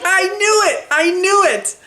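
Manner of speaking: high, vindicated crowing, easing down each time; gleeful I-told-you-so. Retold or imitated. Fan vindicated about Eugene in theater, high gleeful crowing. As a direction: crow it, proven right at last. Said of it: "I stood up in the theater and I was like".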